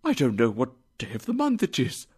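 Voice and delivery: fast, high, giggly; giddy laughter. A narrator's reading. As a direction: laugh through giddy confusion.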